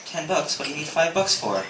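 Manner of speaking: cheap dad. Retold or imitated. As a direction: imitate a dad balking at the price. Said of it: "my dad's pretty cheap".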